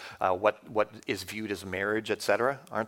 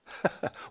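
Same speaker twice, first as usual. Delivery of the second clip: short mock laugh of disbelief; scoffing laugh; 4 dB quieter than usual. Skeptic mocking belief in Genesis, short scoffing laugh. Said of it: "what's gonna happen in behind that".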